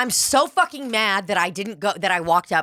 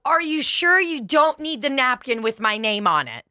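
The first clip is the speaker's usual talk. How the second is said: fake sweet; 7 semitones higher than usual. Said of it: "I go".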